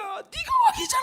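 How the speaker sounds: very high screamed accusation; soul shouting. Retold or imitated. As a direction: inner voice shrieking a rebuke. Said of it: "영혼이 막 소리치는 거야".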